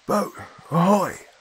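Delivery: high, drawn-out sailor's hail; long, slow, carrying call. A narrator's reading. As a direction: cup your hands and hail a distant boat. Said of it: "raised his hands to his lips and hailed".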